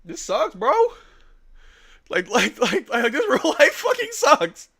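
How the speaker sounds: breaking down in real tears, slow and choked; real crying. Real, not acted. Streamer crying to his fans over losing community, sobbing. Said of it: "I don't care if I sound dramatic right now".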